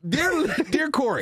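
high cackly witch voice, laughing through it. Acted. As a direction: read it out like a cartoon witch. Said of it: "Sound like a witch".

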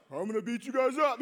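quick copycat threat, little force; hurried, unconvincing parroted threat; mimicking the guard. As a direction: rattle it off as a half-hearted echo. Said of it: "mimicked him".

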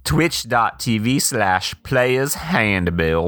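lightly voiced campy host; a hint of a flamboyant showman; campy drag queen. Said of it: "Clem Clemens".

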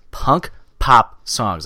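slowly spelling it out; slow, careful tongue twister. Real, not acted. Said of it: "That's kinda hard to say".

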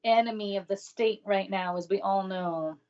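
lightly put-on grave pronouncement; sarcastic. Co-host mockingly introduces the letter's topic, sarcastic. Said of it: "It's all sarcasm".

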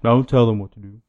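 lightly voiced wrestler; a hint of a tough wrestler's retort; mild promo impression; Roman Reigns. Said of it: "that sounds exactly like Roman Reigns".

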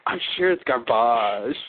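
slow, garbage said French style; I'm sure it's Garbage, gar-BAHZH; mom's French garbage. Retold or imitated. Retold mom corrects her kid: French garbage. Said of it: "She's like".

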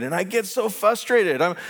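normal talking voice

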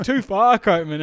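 mock shouted protest. Classmates reacting to thrown desks, mock shouted protest. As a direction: call it out like an alarmed crowd.

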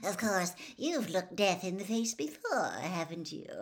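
coaxing gossip reporter, sugary; a reporter wheedling a boy into a scoop; Rita Skeeter voice. Acted. Reporter Rita coaxes Harry, lightly voiced and wheedling.

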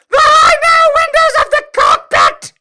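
very high, loud shouted disbelief; 1 incredulous shout. Real, not acted. Reader yelling the absurd cockpit detail again, high and loud. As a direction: yell the line in total disbelief. Repeats even louder.

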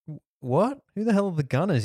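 high mock disbelief; a touch of confused kids; baffled kids. Students baffled by the sensei's band, mock disbelief.

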